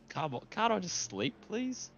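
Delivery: high pleading whine, trailing soft; whiny plea. Retold or imitated. Woken partner begging to sleep, high whiny plea. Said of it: "I'm like".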